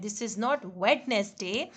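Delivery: slow, weighted "not" before "Wednesday"; slow correction stressing "not". Shown as a demonstration. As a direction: lean on "not", slowly. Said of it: "Wednesday ही कहते हैं".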